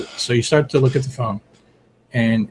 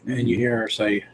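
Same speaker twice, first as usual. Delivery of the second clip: normal talking voice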